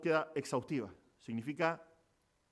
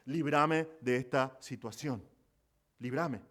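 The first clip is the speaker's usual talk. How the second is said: pleading prayer; 3 semitones lower, slower than usual. Retold or imitated. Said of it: "le pide al Señor".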